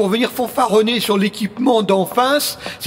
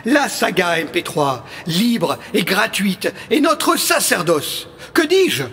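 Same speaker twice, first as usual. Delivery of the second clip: rousing speech. Acted. Rallying speech to the members.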